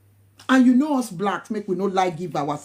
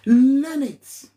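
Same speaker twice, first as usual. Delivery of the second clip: emphatic command; 4 semitones higher, 6 dB louder than usual. Real, not acted. Urging nurses to learn tone.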